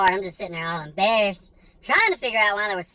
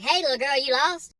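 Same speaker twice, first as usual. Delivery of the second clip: higher, friendly dad voice; caring dad checking on a kid; dad mode; 5 semitones higher than usual. Retold or imitated. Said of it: "I automatically switch into dad mode".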